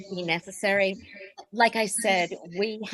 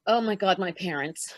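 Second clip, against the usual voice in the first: panicked; 3 semitones higher than usual. Acted. Missed parents' dinner.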